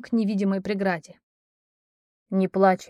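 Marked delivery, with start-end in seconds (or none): 2.3-2.9 tender comfort. Acted. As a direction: hush her gently before the kiss. Prince comforting before kiss.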